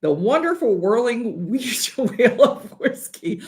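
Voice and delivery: slowed, showy announcer read that breaks into a laugh; slow alliterative announcement. Real, not acted. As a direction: draw it out slowly like a game-show host, a laugh slipping in. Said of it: "that's a freaking mouthful".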